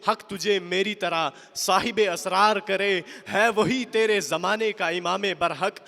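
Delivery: fervent verse declamation; rousing Urdu poem recital; poetry recitation. Acted. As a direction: declaim the lines, driving the repeats home.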